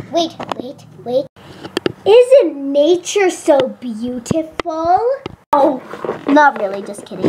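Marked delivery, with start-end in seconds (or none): 2.0-5.0 slow gushing awe; mock dreamy. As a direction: gush over nature.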